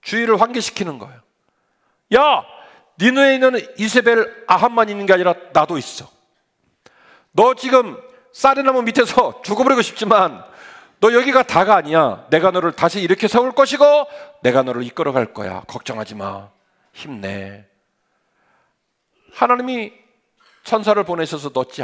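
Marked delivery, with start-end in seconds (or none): 2.1-13.8 higher, louder, emphatic call; God calling out. Acted. God rousing Elijah under the tree, loud and emphatic. 14.4-17.7 God reassuring. Acted. God comforting the exhausted Elijah, low and soft.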